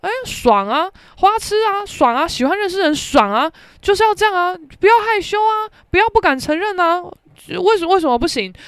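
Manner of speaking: high, cheeky hype; playful cheering; teasing encouragement. Retold or imitated. She eggs on the girl.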